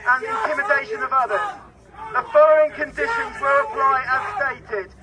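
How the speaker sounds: booming police loudspeaker announcement; amplified dispersal order through speakers; blasting sound cannon. Real, not acted.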